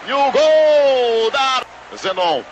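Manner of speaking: loud, slow goal shout. Real, not acted. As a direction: stretch out the goal call. Goal call.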